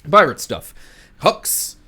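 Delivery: high, loud words through giggles; laughing. Real, not acted. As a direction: lose it while listing the loot. GM cracking up listing loot.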